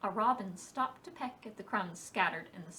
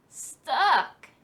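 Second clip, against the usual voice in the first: surprised; 6 semitones higher, 11 dB louder than usual. Acted. Fox tied to tree.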